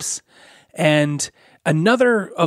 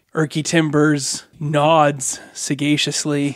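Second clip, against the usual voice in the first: usual speaking voice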